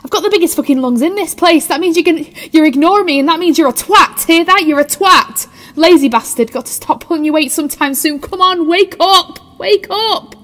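bully him awake with noise; angry yelling. Acted. Woman shouting at unconscious Tim to wake up.

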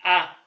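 "آ" like an alef with a fatha; short-a letter sound. Shown as a demonstration. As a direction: say "آ" as an open "ah". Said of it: "يتنطق إزاي؟".

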